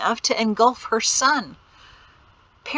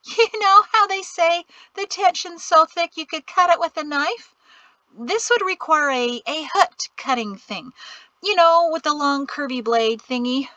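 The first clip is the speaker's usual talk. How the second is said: nervous chatter; 9 semitones higher, 4 dB louder than usual. A narrator's reading. Mari nervously babbling after laugh.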